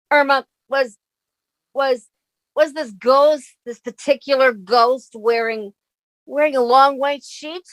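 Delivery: nervous stammer. Acted.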